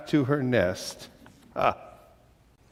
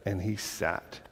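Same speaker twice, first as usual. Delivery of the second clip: "and he sat" much softer, dying off; fading away; 8 semitones lower, 14 dB quieter than usual. A narrator's reading. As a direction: let the last "sat" fade out. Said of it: "repeated fading".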